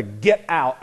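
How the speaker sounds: "get out" punched as the point of the line; stress on get out. Acted. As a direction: lean on "get out" within the quote. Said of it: "I emphasize those two words".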